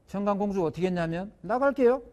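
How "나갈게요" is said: put-on high, bright-pitched young princess, raised a little; defiant princess. A princess answering her angry father, leaving home in a high defiant voice. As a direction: toss it off as the defiant daughter walking out.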